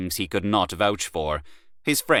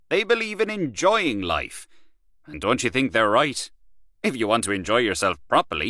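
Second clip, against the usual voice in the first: lightly voiced swaggering man of the world, a bit higher; boastful Gallaher; 4 semitones higher than usual. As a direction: brag about Paris to an old friend. Gallaher boasting about Paris.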